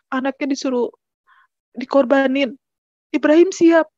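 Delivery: mildly heated, mock scolding in emphatic bursts; retold angry husband. Husband scolds wife as she prays for their child, mildly angry. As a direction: imitate a husband reproaching his wife, with a touch of anger. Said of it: "dia marah".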